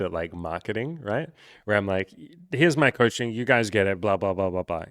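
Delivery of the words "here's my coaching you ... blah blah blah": louder, offhand mock pitch; a coach doing a lazy pitch for his own coaching, louder; mock sales pitch. Shown as a demonstration. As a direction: pitch it like you can't be bothered. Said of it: "Great coaching pitch".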